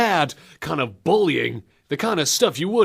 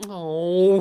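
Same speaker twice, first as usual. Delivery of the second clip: usual speaking voice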